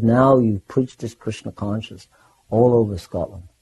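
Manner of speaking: lightly voiced pleased teacher; imitating Prabhupada. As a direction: imitate a guru's measured blessing. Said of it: "such a beautiful way".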